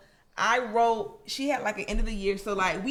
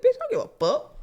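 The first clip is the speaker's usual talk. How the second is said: higher, louder defiant snap; mock defiant kid, pitched up; defiant sass; 8 semitones higher, 5 dB louder than usual. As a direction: throw it back at her with attitude. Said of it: "I'm like".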